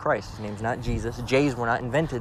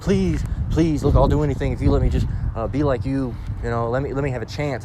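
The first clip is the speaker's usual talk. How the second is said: mock begging. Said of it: "crawling on their hands and knees".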